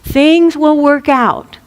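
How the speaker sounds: unhurried reassurance, drawing the words out; lightly acted easygoing calm; chill elder. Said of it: "They're chill".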